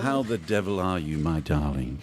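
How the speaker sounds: grand mock-posh host greeting; posh theatrical greeting.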